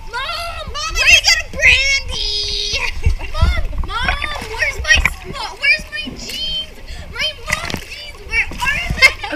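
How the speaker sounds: yelling across the room. Acted. Calling mom for jeans.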